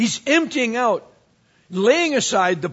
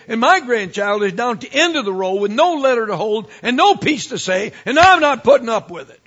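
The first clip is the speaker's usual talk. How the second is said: higher, louder, building indignant complaint; indignant church lady; 3 semitones higher, 5 dB louder than usual. Retold or imitated. Church lady complains to her pastor about the Christmas program, building indignation. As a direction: play the outraged grandmother, rising to a peak. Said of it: "she said".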